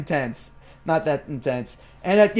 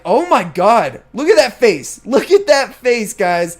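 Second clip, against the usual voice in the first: higher, louder, thrilled exclaiming; excited gushing; 3 semitones higher, 5 dB louder than usual. Retold or imitated. Retelling his reaction to Andre, excitedly gushing. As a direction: gush over the face you just pulled. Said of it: "I'm like".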